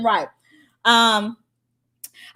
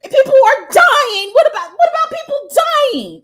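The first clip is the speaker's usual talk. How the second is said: shrill-free caricature of a pearl-clutcher, pitched way up and loud; mocking outraged person; 14 semitones higher, 10 dB louder than usual. Mocking hypocrites who cry about people dying, high and loud. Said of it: "the same people that can be like".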